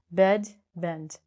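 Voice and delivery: "Bed, bend" each with a short "eh", set apart. Shown as a demonstration. Teacher recaps both words for learners, short E. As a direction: model "Bed, bend" word by word, short vowel. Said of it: "say it like a short vowel".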